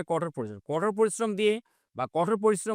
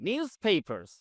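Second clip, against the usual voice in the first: very slow, word by word; spaced-out classroom read; slow model reading; 3 semitones higher, much slower than usual. Shown as a demonstration. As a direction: dictate each English word slowly for learners. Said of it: "slow model sentence".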